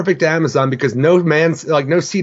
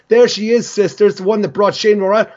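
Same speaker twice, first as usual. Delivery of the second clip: taunting sneer; 5 semitones higher than usual. Retold or imitated. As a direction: sneer at the outcast sister. Retold taunting Amazon sister.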